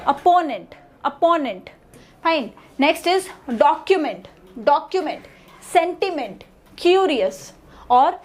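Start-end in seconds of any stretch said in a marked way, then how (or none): 0.1-1.7 "opponent" as op-PO-nent; primary syllable stress. Shown as a demonstration. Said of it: "give more importance to the primary syllables". 3.6-5.3 "document" as DOC-u-ment; primary syllable stress. Shown as a demonstration. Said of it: "give more importance to the primary syllables". 5.7-7.4 "sentiment" as SEN-ti-ment, "curious" as CU-rious; primary syllable stress. Shown as a demonstration. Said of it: "give more importance to the primary syllables".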